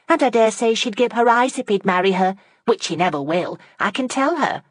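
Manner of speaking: put-on high, scornful young lady. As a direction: sneer it out. Fanny scornful of Margaret.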